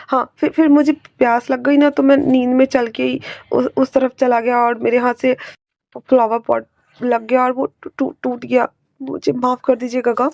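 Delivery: put-on a frightened boy making excuses; scared stammer. Wing, caught after breaking the pot, stammers nervously.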